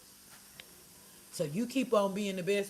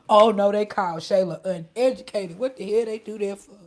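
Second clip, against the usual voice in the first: indignant; 8 dB louder than usual. Real, not acted. Indignant retelling of insult.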